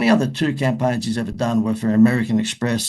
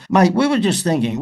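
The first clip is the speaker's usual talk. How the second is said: put-on higher, louder Aussie Crocodile Dundee accent; 9 semitones higher, 6 dB louder than usual. Answering machine pitch to a manager, in a Crocodile Dundee accent. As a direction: push the Crocodile Dundee accent up high and bright. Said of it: "Crocodile Dundee accent".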